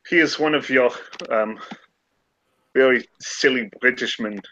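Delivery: lightly French, drifting German; a hint of a French scholar; French accent. Teasing the Irishman, light French accent. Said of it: "I keep going German".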